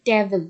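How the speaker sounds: টেবিল with a punched "TE" and a falling end; টেবিল, front syllable stressed; stress on first syllable. Shown as a demonstration. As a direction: press on TE in টেবিল, drop the second syllable. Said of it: "টি এর উপর pressure দিয়ে".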